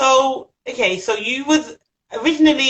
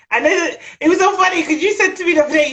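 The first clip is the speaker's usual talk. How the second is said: laughing; 8 semitones higher, 4 dB louder, faster than usual. Real, not acted. Laughing while recalling.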